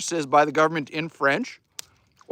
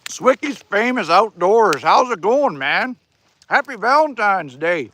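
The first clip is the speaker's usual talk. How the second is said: talking through a mouthful; words round a bite of food; mouth full; 3 semitones higher, 4 dB louder than usual. Real, not acted. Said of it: "I get food in my mouth and I get a Texas accent".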